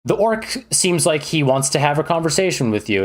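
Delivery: playful game master scene setting; lightly hammed-up storyteller. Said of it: "be like, you know".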